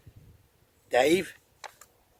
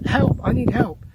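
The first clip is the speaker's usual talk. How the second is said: higher, louder acted cry for help; mock plea for help; 8 semitones higher, 6 dB louder than usual. Someone asking a stranger for a favour, mock pleading. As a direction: call out as if needing a favour.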